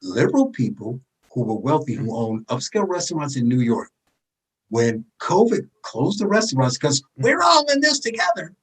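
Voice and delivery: slow, broken into phrases with pauses; deliberately slow. Real, not acted. Explaining the restaurant hypocrisy to the listeners, slow and deliberate. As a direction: spell it out phrase by phrase, slowly. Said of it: "Let me say this slowly".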